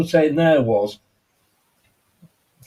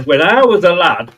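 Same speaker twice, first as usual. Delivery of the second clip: put-on Monty Python old man; 5 dB louder than usual. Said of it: "a Monty Python moment there".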